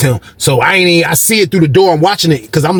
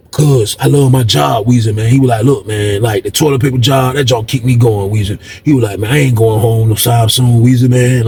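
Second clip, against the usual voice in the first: low cellmate voice; 3 semitones lower than usual. Retold or imitated. Cellmate Moose quoted in story.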